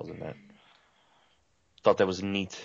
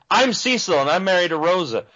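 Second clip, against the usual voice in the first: goofy character voice; 3 semitones higher than usual. Retold or imitated. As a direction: ham up a naive RPG hero. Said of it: "He's just like".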